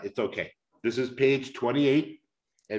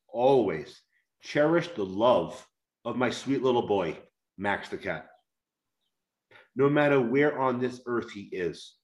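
heartfelt reading aloud. Acted. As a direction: read it like a tender memoir, letting pauses sit. Reads his book passage aloud.

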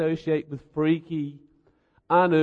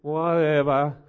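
dismissive; slower than usual. Retold or imitated. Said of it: "And I get this".

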